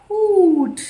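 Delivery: high, loud, drawn-out hoot; long falling owl call; owl's hoot. Shown as a demonstration. Teacher writing the owl's answer, drawn-out high hoot. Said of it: "First is owls".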